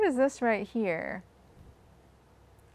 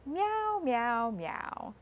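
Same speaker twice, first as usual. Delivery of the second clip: cat meowing; 4 dB quieter, much slower than usual. Retold or imitated. Teaching children the farm cat, a playful meow.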